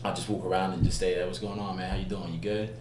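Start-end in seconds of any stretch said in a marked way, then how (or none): 1.3-2.8 put-on casual American accent greeting. Actor passing as American to strangers, casual American accent. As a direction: chat like an American local. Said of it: "just stay in that accent".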